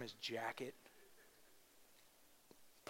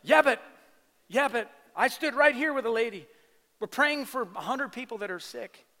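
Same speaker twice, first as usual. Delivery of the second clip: much higher, loud mock protest; doubting churchgoer; 9 semitones higher, 11 dB louder than usual. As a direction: whine "yeah, but" like a skeptic. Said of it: "people going".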